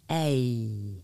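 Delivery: A still long, moving "eh" to "ee". Shown as a demonstration. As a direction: speed up the A glide a little. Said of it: "And then faster".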